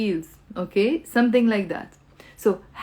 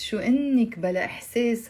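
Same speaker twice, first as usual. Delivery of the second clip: fast Arabic phrase; much faster than usual. Shown as a demonstration. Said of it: "you have to say".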